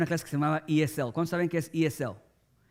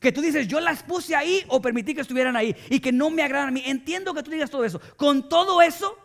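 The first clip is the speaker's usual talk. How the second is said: God demanding; 4 semitones higher than usual. Retold or imitated. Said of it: "Dios viene y te dice".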